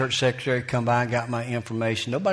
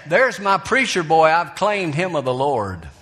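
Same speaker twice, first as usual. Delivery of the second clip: lightly voiced granny showing off her preacher boy; granny proudly presenting her grandson to the preacher, lightly voiced; imitating granny; 3 semitones higher than usual. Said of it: "That's the way she said it".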